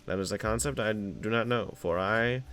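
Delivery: pompous 1920s oil baron, lightly voiced; oil tycoon. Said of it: "nineteen twenty oil baron voice".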